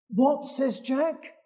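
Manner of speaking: high disbelieving what; shocked. Acted. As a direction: react in disbelief. Jack shocked by order.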